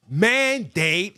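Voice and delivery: "Mandate" said loud and drawn out; "Mandate" punched out as a highlighted word; emphatic highlight. Shown as a demonstration. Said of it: "I highlighted for you".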